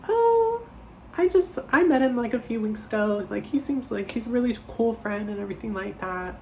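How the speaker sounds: nervous cover-up. Retold or imitated. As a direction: cover the awkwardness with a bright fake ease. Her own nervous cover story.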